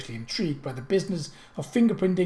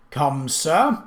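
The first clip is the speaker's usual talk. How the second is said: thundering; 5 dB louder than usual. Acted. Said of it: "he thundered".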